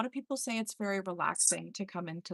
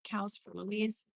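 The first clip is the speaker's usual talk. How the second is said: voice through static; 3 dB quieter, slower than usual. Real, not acted. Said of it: "He says".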